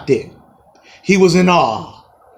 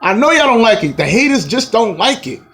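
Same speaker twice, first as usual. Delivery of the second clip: taunting; 6 semitones higher than usual. Real, not acted. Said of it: "taunting haters".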